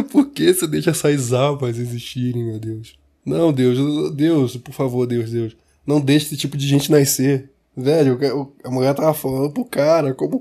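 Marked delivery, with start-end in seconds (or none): 0.1-7.5 pleading mock prayer to God; hammed-up plea to heaven.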